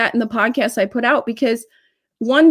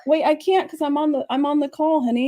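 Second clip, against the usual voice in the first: gentle parent aside; 3 semitones higher than usual. Real, not acted. Parent on a call to a child, gentle aside.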